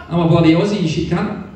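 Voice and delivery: indignant Aussie impression; Aussie accent. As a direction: correct them in an Aussie accent. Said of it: "nice old Aussie guy".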